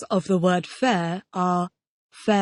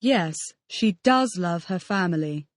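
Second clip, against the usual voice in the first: does stressed in "she does love". Shown as a demonstration. Student denying the teacher's claim, does stressed. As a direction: hit the word does to contradict. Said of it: "using emphatic forms".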